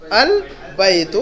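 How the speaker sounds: البیت stretched very slowly, each sound held; teacher modelling البیت syllable by syllable; drawn-out model reading. Shown as a demonstration. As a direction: say البیت slowly and clearly for the class. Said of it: "اس کو کیسے پڑھیں گے ہم؟".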